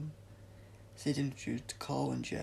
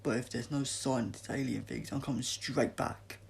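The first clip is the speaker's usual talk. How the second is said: grumpy; 3 dB louder than usual. Acted. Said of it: "said Jess grumpily".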